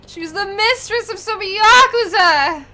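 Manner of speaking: laughing reveal. Acted.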